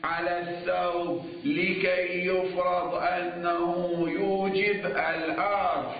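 slow, measured scholarly dictation on a level tone; formal lecture dictation. Real, not acted. Seminary teacher dictating the legal argument to students, formal dictation. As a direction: dictate the text, stretching the long vowels.

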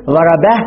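"ضربه" stopped on a vowelless h; pausal ha. Shown as a demonstration. Teacher showing the pause form, "ضربه" ending in -bah. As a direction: close "ضربه" on a breathed h, no final u. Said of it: "يقف على الهاء بس-، ب-، بالإسكان".

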